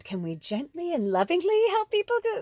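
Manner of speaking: gentle plea. Retold or imitated. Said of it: "And so I said".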